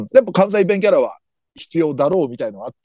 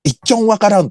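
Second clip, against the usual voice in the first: lightly quoted Hakata-ben line, a bit higher; Hakata dialect; 5 semitones higher, faster than usual. Retold or imitated. Host quoting anime girl Koga, light Hakata accent. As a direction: toss off Koga's Hakata phrase casually, hint of accent. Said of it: "古賀ちゃんの博多弁".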